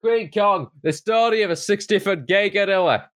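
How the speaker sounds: high, hooting ape voice; monkey impression. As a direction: hoot it out like a chimp. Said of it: "My, uh, monkey impression".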